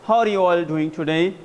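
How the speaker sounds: slow, upbeat welcome to the audience; high pitch. Shown as a demonstration. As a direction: lift the pitch, energetic greeting. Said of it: "यहाँ पर जो pitch रहेगी वो थोड़ी सी high रखनी है". (ऊँची पिच में अभिवादन)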